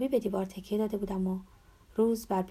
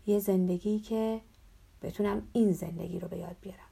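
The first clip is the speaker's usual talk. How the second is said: narrated shout. A narrator's reading. Prisoner answers the priest's question, restrained shout. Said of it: "منم با فریاد گفتم".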